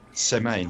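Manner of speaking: semaine said the French way, nasal final vowel. Shown as a demonstration. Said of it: "It's, uh".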